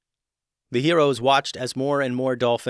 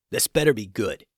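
gruff dolphin guard. Acted. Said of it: "he growled".

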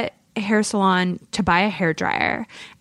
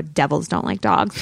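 lower-pitched dry retelling; deadpan quip; 5 semitones lower than usual. Retold or imitated. Retelling a joke made to the checkout guy, deadpan. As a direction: toss off the joke low and dry.

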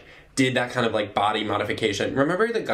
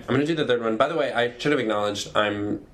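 congested, stuffy voice; blocked nose; 2 semitones lower than usual. Real, not acted. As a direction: talk through a blocked nose. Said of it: "I'm congested, and that's why I sound like this".

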